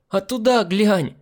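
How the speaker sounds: put-on high, drawn-out gleeful girl's voice. A narrator's reading. Prankster sending the hostess to the mirror, gleefully. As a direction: sing out the advice with mischievous joy. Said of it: "радостно посоветовала проказница".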